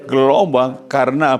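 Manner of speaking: slow, high, syllable-by-syllable read-out; loud reading aloud. Shown as a demonstration. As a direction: lead the congregation in reading it out, slowly. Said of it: "Baca keras".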